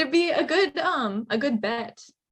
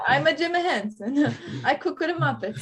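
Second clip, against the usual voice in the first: imitating his playful Italian accent, raised pitch; mock Italian accent; 4 semitones higher than usual. Imitating the co-host's stray accent, mock Italian. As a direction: do a light, jokey Italian accent. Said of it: "say something in an Italian accent".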